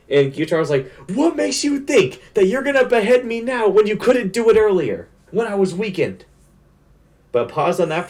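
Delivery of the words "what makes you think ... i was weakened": high-pitched, incredulous villain challenge; scornful taunt. Retold or imitated. Fan voicing a demon to the swordsman at his neck, scornful taunt. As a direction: hurl it as a mocking villain's question. Acting out Gyutaro taunting Tanjiro.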